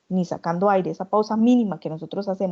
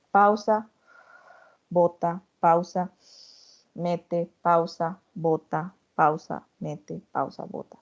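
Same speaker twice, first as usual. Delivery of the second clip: paced breathing cues; slower than usual. Shown as a demonstration. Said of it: "Ustedes hacen esto".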